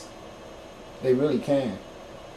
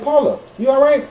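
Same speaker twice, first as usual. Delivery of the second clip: calling out; 9 semitones higher, 5 dB louder than usual. Retold or imitated. Calling her on the radio.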